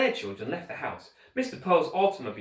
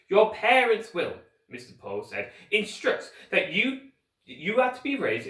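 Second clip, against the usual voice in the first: pompous banker; 6 semitones higher than usual. Acted. Mister Poe's pompous banker voice.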